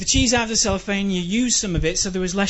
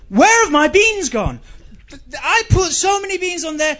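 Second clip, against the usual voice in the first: mock outrage; 6 semitones higher than usual. Comic at his plate, high outraged wail. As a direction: wail at the plate like the food was stolen. Rant about vanished toppings.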